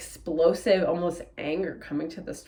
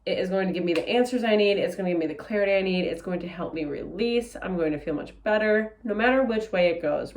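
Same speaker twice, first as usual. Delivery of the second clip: pep talk. Retold or imitated. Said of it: "I wanna put emphasis on that".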